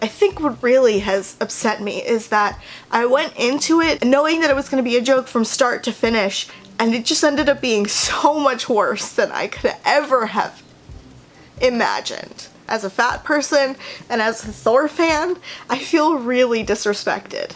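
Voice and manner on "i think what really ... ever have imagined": voice on the edge of tears, tearing up. Speaker talking about Endgame, tearing up. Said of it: "[tearing up]".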